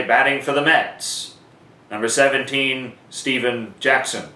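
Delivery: same call with number seventeen added; PA announcer call. Shown as a demonstration. Announcer giving the alternative version, in a short stadium call. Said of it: "You could also say".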